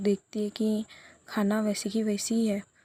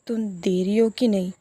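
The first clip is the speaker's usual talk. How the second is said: louder, impatient demand; angry demand; 6 dB louder than usual. Retold or imitated. Tanu demanding the number from Komal, angry and louder. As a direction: snap the question at her friend. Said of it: "गुस्सा मत कर यार".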